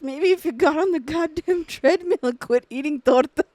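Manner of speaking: mock cruel mom. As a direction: play the mean mom mocking a kid. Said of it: "I was like".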